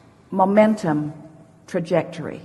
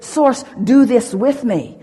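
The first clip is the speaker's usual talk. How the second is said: slowed down and louder, every word of "Source, do this with me." leaned on; slow emphatic request; 4 semitones higher, 5 dB louder, slower than usual. Shown as a demonstration. Showing listeners the right way to ask: "Source, do this with me." slowed and louder. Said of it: "did you hear the distinction".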